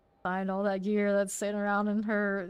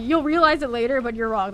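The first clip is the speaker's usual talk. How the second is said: imitating him; 7 dB louder than usual. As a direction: parrot his smug correction, a bit raised. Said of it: "This is how he says it".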